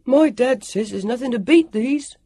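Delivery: put-on high, loud boyish call. A narrator's reading. Sam boasting to the others behind, excited calling out. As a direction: call out like a proud, excited kid. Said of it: "he called out".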